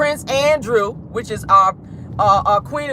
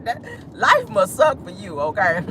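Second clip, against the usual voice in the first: laughing taunt. Real, not acted. Laughing at Andrew.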